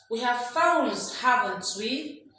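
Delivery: slow "We have phones", then "haven't we" rising; slow, deliberate tag question going up on "haven't we". Shown as a demonstration. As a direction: draw it out and lift WE at the end of "haven't we". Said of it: "rising tone is for tag questions".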